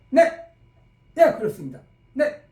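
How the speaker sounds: short clipped yes sir; crisp soldier's reply. Shown as a demonstration. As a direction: answer your superior briskly. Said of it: "가볍고 짤막하게 얘기할 때".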